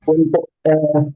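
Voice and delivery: audio dropping in and out; choppy call audio; bad connection. Real, not acted. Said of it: "Suaranya hilang-hilang".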